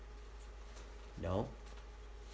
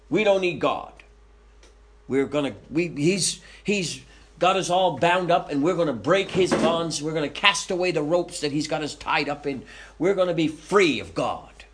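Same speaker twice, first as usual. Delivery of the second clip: higher and louder, a boastful rebel crowd; defiant rebels; 4 semitones higher, 4 dB louder than usual. Acted. Preacher voicing the rebellious nations, loud and defiant. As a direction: puff up like rebels throwing off their chains.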